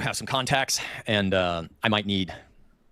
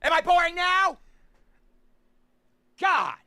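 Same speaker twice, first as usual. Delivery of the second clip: high, slow arena shout; Gladiator shout; 8 semitones higher, slower than usual. Acted. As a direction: bellow it like Maximus to the crowd. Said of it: "his fucking Russell Crowe moment".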